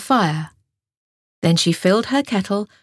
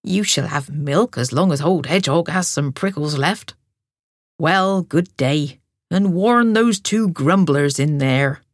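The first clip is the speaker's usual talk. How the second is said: lightly voiced, fond and unhurried; old hedgehog; 3 semitones lower than usual. A narrator's reading. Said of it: "smiled Hedgehog".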